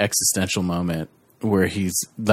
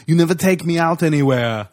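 pouty pregnant Arnold, pitched higher; quoting Arnold; 6 semitones higher than usual. Retold or imitated. Podcaster quotes Arnold complaining to Danny, mock whiny voice. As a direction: whine it like Arnold in the movie. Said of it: "saying stuff like".

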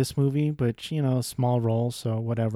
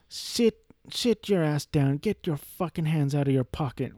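mock tough cop; 3 semitones higher than usual. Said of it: "trying to play a grizzled, uh, cop".

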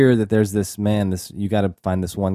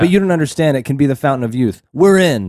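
mock movie dialogue; 4 semitones higher, 5 dB louder than usual. Mocking rushed movie exposition.

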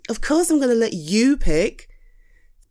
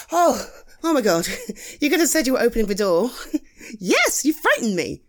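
startled; 3 semitones higher, faster than usual. Acted. Startled by friend at door.

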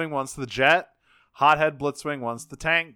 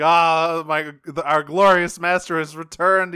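loud, higher, rapturous cry; ecstatic screaming; 4 semitones higher, 6 dB louder than usual. Retold or imitated. Lugnut screaming in rapture at his master's return. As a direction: shout it like a zealot greeting his master. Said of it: "Lugna is just screaming like".

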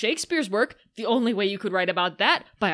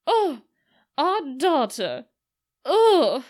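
higher, hammed-up wail of despair; mock wailing; 6 semitones higher, 4 dB louder, slower than usual. Wife lamenting their daughter to Oxford, hammed-up high wail. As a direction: overplay the grieving mother. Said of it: "And she goes".

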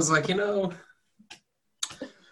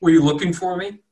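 pixie; 5 semitones higher, 4 dB louder than usual. Acted. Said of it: "and she's like".

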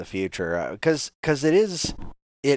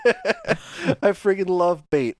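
excited; 11 semitones higher, 4 dB louder, much slower than usual. Real, not acted. Gushing over favourite character.

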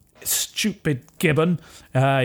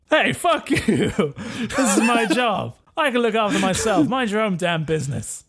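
indignant retort; 5 semitones higher than usual. Acted. Cop snaps back at agent.

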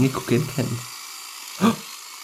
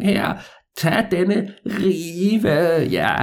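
put-on slow, higher creaky old man; 6 semitones higher, much slower than usual. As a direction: drag the words out like an old man. Old man voiced in story.

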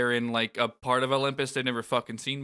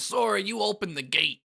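Donald; 8 semitones higher than usual. Retold or imitated. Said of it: "Donald blames Sora and says".

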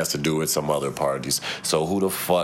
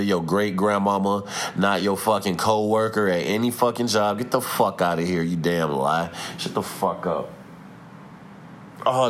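worked-up scolding, moderately heated; hostile rant. Real, not acted. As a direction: tell them off, fed up and mad. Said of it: "why I just got so hostile".

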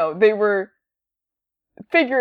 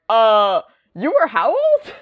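incredulous grown-up; 4 semitones higher, 3 dB louder than usual. Retold or imitated. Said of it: "grown-ups are like".

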